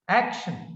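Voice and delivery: "action" with AC prominent; stress on first syllable. Shown as a demonstration. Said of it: "first syllable is pronounced".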